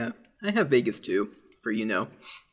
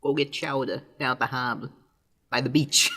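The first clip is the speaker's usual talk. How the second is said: mock Boston accent with dropped R's; put-on Boston accent. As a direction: play along as a fake Bostonian. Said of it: "the hardest possible Boston accent".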